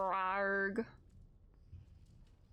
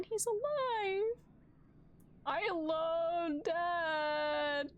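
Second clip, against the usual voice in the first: slow, higher, teary joy; overjoyed; 6 semitones higher, much slower than usual. Real, not acted. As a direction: savor each word with joy. Dad cured in game.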